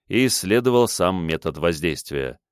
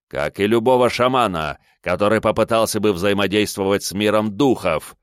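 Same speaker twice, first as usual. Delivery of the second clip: angry; 2 semitones higher than usual. Acted. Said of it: "зло бросил мой недоброжелатель".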